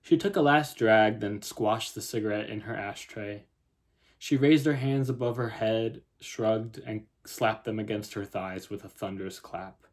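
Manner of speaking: measured literary reading; story narration. A narrator's reading. Writer reads her opening scene to viewers, story narration. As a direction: read the story out in even phrases.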